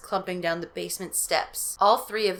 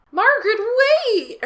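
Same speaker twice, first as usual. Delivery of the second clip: high, loud, slow frightened mom; crying mother; 6 dB louder, slower than usual. Acted. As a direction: cry out as the scared mother. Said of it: "her mother cried".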